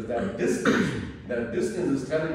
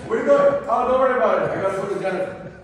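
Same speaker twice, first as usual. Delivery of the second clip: high, loud breezy brush-off; flippant teen; 8 semitones higher, 9 dB louder, faster than usual. Retold or imitated. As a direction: brush the parent off on the way out. Flippant teen leaving the house.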